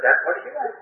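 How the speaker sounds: mock-confident insistence repeated; insistent. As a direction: cover your ignorance with certainty. Insisting again to shop girl.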